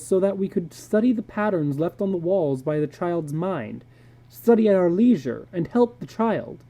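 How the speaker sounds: a hint of a blunt psychologist warning his friend; earnest psychologist. Psychologist David to George, a lightly voiced urgent warning.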